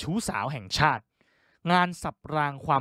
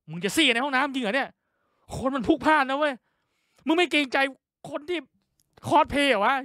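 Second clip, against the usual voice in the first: indignant disbelief; 9 semitones higher than usual. Retold or imitated. Indignant inner reaction to couple.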